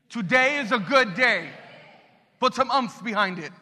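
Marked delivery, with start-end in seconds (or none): 0.1-1.5 "Today is a good day." said louder, with conviction; like you mean it. Shown as a demonstration. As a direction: declare "Today is a good day." with full belief. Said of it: "now say it like you mean it".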